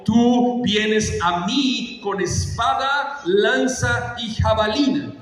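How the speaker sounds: slow, stretched proclamation; bold declamation. Acted. David faces Goliath with his challenge, bold declamation. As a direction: declare it word by word to the enemy.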